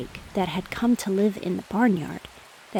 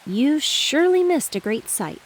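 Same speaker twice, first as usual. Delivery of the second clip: higher, louder preening brag; strutting rooster; 6 semitones higher, 4 dB louder than usual. Acted. Rooster struts on the roof bragging to the pig. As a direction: show off while strutting. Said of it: "said the rooster, stretching his neck and strutting".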